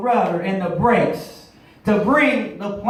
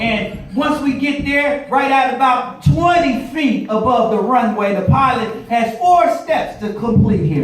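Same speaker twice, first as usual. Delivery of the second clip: preaching. Acted. Pilot lesson turned sermon.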